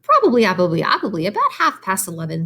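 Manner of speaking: hint of a fussy goose answering; chatty goose. Voices the goose.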